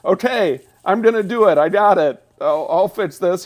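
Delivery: lightly voiced eager boy; a hint of the confident kid.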